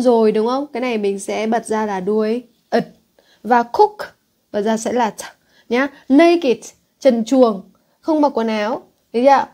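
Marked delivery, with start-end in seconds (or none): 6.1-6.6 put-on Naked said as NAY-kid; high, punched first syllable in "Naked", then -id; two-syllable naked. Shown as a demonstration. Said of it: "phải đọc là naked".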